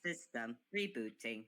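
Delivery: slow, steady robot announcement voice; metallic cyborg voice. Pretend. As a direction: drone it slowly like a machine. Playing a robot rebooting.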